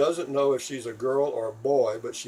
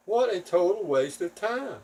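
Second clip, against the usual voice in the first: exasperated scorn; 6 semitones higher than usual. Retold or imitated. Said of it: "And I'm thinking".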